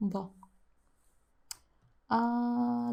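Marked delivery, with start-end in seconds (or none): 0.1-0.3 DA as thick as possible. Shown as a demonstration. Teacher urging learners on, very thick DA. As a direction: weigh down the d in DA. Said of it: "Make it as thick as you can".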